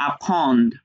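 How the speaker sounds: "apprendre" closed on the final consonants; matching vowelless ending. Shown as a demonstration. Teacher comparing similar words, "apprendre" with the same stopped ending. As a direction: end "apprendre" on the d like comprendre, voice falling. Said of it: "এগুলো মিল করলে বুঝতে পারবেন".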